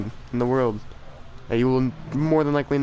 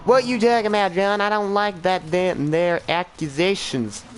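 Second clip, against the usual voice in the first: mock outrage; 5 semitones higher than usual. Mock offended at accent claim.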